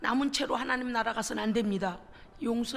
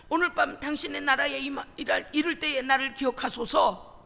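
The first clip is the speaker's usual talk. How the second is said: the plea 기억하소서 said louder, ringing out; thief's fervent plea; 5 dB louder than usual. Retold or imitated. Thief crying out to Jesus on the cross, louder fervent plea. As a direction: call out 기억하소서 as a cry of faith. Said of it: "그래서 뭐라 그래요?".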